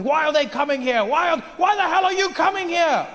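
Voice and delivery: hammed-up xenophobic yelling; mock British complaint. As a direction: rant like an angry local.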